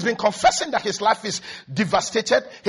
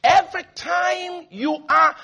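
mocking the worrier; 6 semitones higher than usual.

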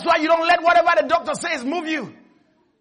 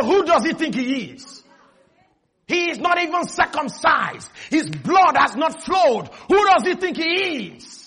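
defiant David; 3 semitones higher than usual. Retold or imitated. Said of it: "He stepped outside and said".

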